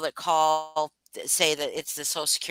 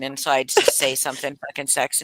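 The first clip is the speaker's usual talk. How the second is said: normal talking voice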